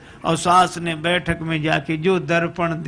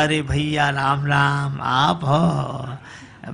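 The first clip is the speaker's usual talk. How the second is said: polite greeting; 3 semitones lower, much slower than usual. Acted. Father-in-law greets mirror reflection.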